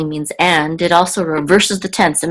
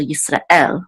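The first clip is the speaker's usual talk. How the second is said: Yisrael stressed on the final El; stress on the last syllable. Shown as a demonstration. Teacher showing where the accent mark falls. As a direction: lean on the El of Yisrael. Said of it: "it's on the last syllable".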